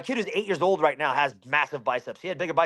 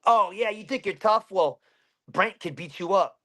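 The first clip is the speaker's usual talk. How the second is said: imitated bully's challenge, pitched up at first; retold threat; 4 semitones higher than usual. Older kids threatening him from the porch, mock taunt. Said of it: "threatening me".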